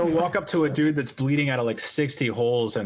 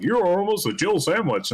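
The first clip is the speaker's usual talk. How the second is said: campy voice acting; 7 semitones higher than usual. Quoting campy game voice acting.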